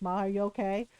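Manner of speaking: low, soft careful question; timid quiet check. Retold or imitated. Daughter checking on her furious mom, timid and soft. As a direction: ask gently, tiptoeing. Tiptoeing around angry mom.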